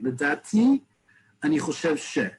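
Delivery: LIDATI rising at the end, then a short pause; slight hesitancy. Shown as a demonstration. Teacher modelling a humble opinion, LIDATI rising hesitantly. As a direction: hesitate after a lifted LIDATI before going on. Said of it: "show a little bit of hesitancy".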